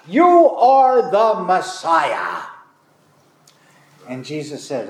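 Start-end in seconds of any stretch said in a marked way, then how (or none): 0.1-2.4 blurted out. Retold or imitated. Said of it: "blurts out".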